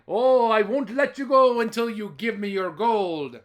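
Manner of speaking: loud laughing demand; gleeful demand. Acted. Jamie laughing loudly while demanding gold. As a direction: laugh as you insist.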